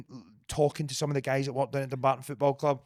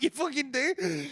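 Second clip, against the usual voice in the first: mock reply; 12 semitones higher, slower than usual. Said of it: "He's like".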